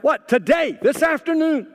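high startled disbelief; mock startled pastor; surprised. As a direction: caught off guard by the request.

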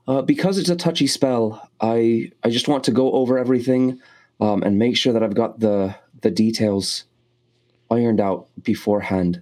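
speaking as the spellcaster; in character. Acted. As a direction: step into the character's voice. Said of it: "I'll jump into character right now".

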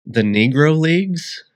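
topic tossed out high and loud for effect; spring the surprise topic on the listeners; playful reveal. Acted. Host teasing listeners with an unexpected topic, playful reveal.

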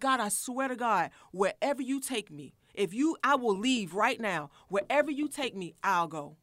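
high, loud desperate prayer; half-yelling at God in the parked car; pleading cry to God. Retold or imitated. Woman crying out to God in her car, loud and high. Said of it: "I was screaming in the car".

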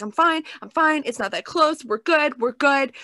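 mildly panicked retold self-reassurance; mock nervous self-soothing. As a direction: imitate a friend talking herself down mid-freak-out. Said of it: "a full-on breakdown and talking herself down out loud".

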